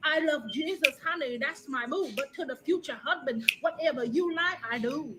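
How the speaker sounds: put-on Vietnamese accent.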